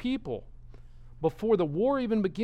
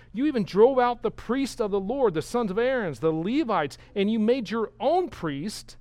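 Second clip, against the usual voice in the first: sarcastic; 3 semitones higher than usual. Retold or imitated. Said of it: "the sarcasm".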